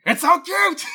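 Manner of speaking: high squealing delight over a cute monster; gushing excited. Retold or imitated. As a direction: shriek it out in pure delight. Wrestler gushing over monster dog.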